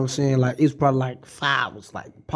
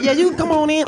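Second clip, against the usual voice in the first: imitating dog owner; 11 semitones higher than usual. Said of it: "So they be like".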